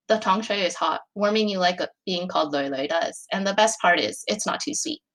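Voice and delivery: steady, even read-aloud narration; story narration. A narrator's reading. Reading her own fic aloud to friends, calm narration.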